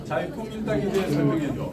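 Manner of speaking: clear, careful command to a phone; talking to voice assistant. Shown as a demonstration. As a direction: speak the request to the AI. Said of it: "이거 제가 실행한 거거든요". (음성 비서에게 말하듯)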